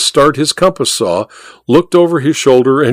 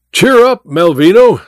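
higher, lifted call of encouragement; calling through a door; 7 semitones higher, 4 dB louder than usual. A narrator's reading. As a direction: call out cheerily to someone shut in. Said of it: "said Welton through the door".

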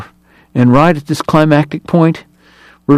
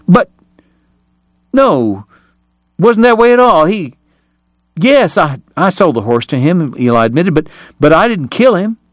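frightened protest; 6 semitones higher than usual. A narrator's reading. Eli denies murder at gunpoint.

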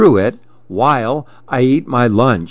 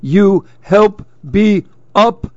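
strained plea; 8 semitones higher, slower than usual. A narrator's reading. Upside-down lizard asks help.

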